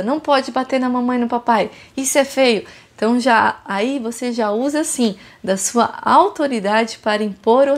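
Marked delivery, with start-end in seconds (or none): 0.0-2.6 firm correction. Shown as a demonstration. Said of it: "Fala com firmeza".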